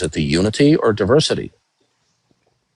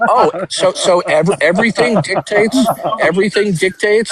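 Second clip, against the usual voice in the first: high incredulous sarcasm; mock surprise, pitched way up; sarcastic question; 8 semitones higher than usual. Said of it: "You say".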